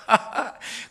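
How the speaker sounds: short, voiceless chuckle; light chuckle. Real, not acted. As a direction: chuckle briefly at the wordplay. 말장난 뒤에 가벼운 웃음. (가볍게 피식 웃음)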